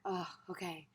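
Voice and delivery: soft, settling little realization; mild relief. Acted. Teacher voicing the feeling of landing after a breath, mild relief. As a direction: quietly let it land, a touch relieved. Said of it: "relief. Something is just kind of like".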